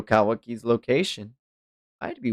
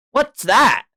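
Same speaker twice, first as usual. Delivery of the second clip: higher, louder clueless voice; high puzzled question; 7 dB louder than usual. Acted. Naruto asking what fusion is, cluelessly. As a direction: play it dumb and bright.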